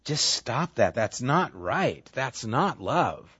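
slow, firm scolding of yourself; self-rebuke. Retold or imitated. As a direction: rein yourself in calmly. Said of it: "I have to say".

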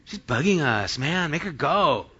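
mock fed-up pleading; whiny complaint. Disciples wanting the woman gone, whiny complaint. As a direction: grumble like someone being pestered. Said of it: "They said it just like that".

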